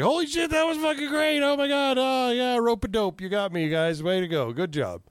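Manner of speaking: high-pitched, gushing mock outburst that eases down; retold excitement. Viewer recalling his reaction to the TV twist, high excited outburst. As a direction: act out being thrilled, starting very high and settling.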